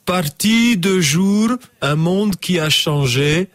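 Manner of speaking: slow poem reading, Flemish-accented attempt; mock-solemn haiku in an amateur Flemish accent. Shown as a demonstration. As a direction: recite it slowly in a badly faked Flemish accent. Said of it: "J'ai essayé de faire l'accent flamand".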